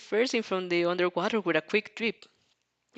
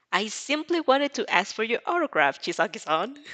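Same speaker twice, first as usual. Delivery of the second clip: a mild sarcastic lilt; 4 semitones higher than usual. Acted. Girl mocking the mafia boss with mild sarcasm. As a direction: say it sweetly, meaning the opposite. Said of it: "a not-so-subtle layer of sarcasm".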